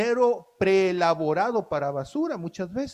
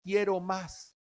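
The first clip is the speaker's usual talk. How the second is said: craving voice; 6 dB quieter, slower than usual. Retold or imitated. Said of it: "y tú dices".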